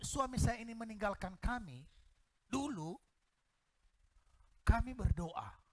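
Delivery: ordinary talk, nothing marked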